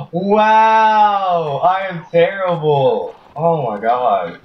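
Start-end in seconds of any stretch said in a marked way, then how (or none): 0.1-3.1 exasperated cry. Real, not acted. Self-mocking after a miss.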